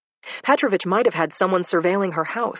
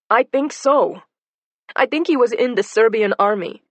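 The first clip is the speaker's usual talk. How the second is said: agitated Anna; 5 semitones higher, 5 dB louder than usual. Acted.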